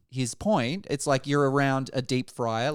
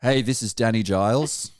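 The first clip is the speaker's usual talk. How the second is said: mock deep voice; 4 semitones lower than usual. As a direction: lower deep impersonation. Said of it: "and just goes".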